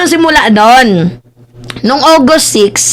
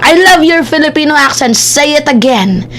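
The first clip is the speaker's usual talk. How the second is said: mock Filipino-accented English, sinking in pitch; Mike Abe; slower than usual. Vlogger mimicking a man's English, mock Filipino accent. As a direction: tease with a heavy Filipino accent, drawing words out. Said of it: "yung accent ni Mike Abe".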